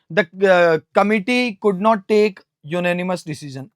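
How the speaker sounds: slow and even, word by word; slow example sentence. Shown as a demonstration. Teacher dictating an example sentence slowly to students. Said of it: "giving an example sentence".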